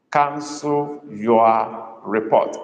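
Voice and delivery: very slow, "Cancel" stretched out; emphasis on cancel. Shown as a demonstration. Tutor prompting Igbo learners, "Cancel" slow and emphasized. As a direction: hold "Cancel" long, then spell out the rest slowly. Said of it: "Emphasis is on cancel".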